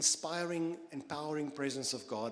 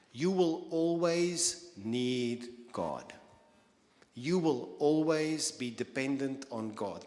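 each word slow and louder, leaning on "always"; slow emphatic preaching; 4 dB louder, slower than usual. Acted. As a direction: drive "always" home slowly and firmly. Preacher hammering the key point.

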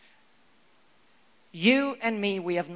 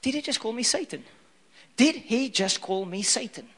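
mock outrage, storming off; hurt disciple ranting before walking out; offended Peter; 3 semitones higher, 3 dB louder than usual. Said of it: "I'm like".

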